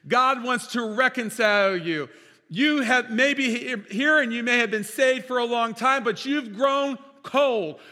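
fervent sermon delivery; preaching. Acted. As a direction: proclaim it to the congregation. Pastor preaching at full force.

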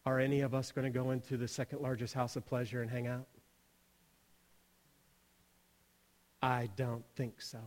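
low, soft solemn telling with long pauses; grave, hushed appeal. Real, not acted. Speaker tells listeners of women lined up, grave and hushed. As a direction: drop low and quiet, let it sink in.

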